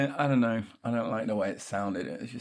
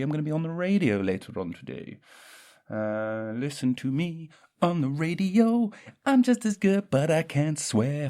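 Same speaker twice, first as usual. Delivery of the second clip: high, loud radio DJ voice; radio presenter; 6 semitones higher, 4 dB louder than usual. Acted. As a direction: pitch it up like a cheesy DJ.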